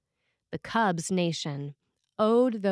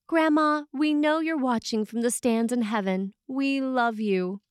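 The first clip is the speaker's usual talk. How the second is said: higher, louder call to Grandma, slowing on We love you; heartfelt message; 5 semitones higher, 4 dB louder than usual. Pretend. Chalk message to a late grandmother.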